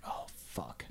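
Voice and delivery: hushed unvoiced whisper; a worried whisper to the friends; whispered oh fuck. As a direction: breathe it out under your breath. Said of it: "we're like".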